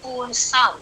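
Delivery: very slow, spacing each syllable for counting; slow counting recitation. Shown as a demonstration. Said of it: "यहाँ पर भी आठ".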